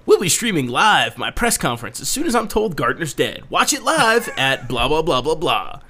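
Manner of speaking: upbeat announcer voice, unhurried; newscaster voice. Retold or imitated. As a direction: read it like an eager anchorman. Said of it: "I like your newscaster voice".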